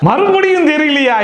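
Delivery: slow, loud disbelieving laugh; exasperated laugh. Real, not acted. Host exasperated by repeated answer. (சிரிப்புடன் சலிப்பு)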